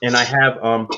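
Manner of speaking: talking through a mouthful of food; words round a bite of chicken; mouth full. Real, not acted. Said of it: "with my mouth full".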